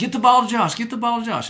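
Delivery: high-pitched, loud yelling.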